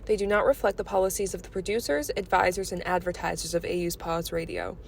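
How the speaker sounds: formal station announcement, evenly read; disclaimer read. Real, not acted. Station reader warns listeners about views and content, formal disclaimer read. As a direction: read it out like an official radio disclaimer.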